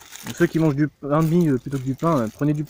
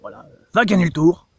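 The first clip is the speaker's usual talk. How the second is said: loud cheering shout, higher; 6 semitones higher, 7 dB louder than usual. Pretend. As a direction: cheer him on from the roadside. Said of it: "On va lui dire".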